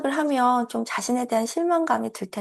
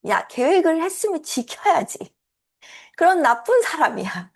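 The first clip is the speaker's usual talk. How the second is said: raised, higher nagging scold; 7 semitones higher, 3 dB louder than usual. Retold or imitated. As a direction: nag like a strict parent. Scolding inner voice quoted. (꾸짖는 잔소리 목소리)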